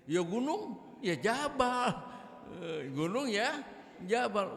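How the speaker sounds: high, loud playful stress on Jabal; loud mock emphasis. Shown as a demonstration. Preacher joking to his congregation about gunung Jabal. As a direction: hammer home that gunung is Jabal. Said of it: "Wah, gunung Jabal Uhud".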